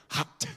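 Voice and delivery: "hot" with a hard, popped final t; over-enunciate "hot", releasing the t sharply; over-pronounced. Shown as a demonstration. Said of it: "I pronunciate stuff with Iris".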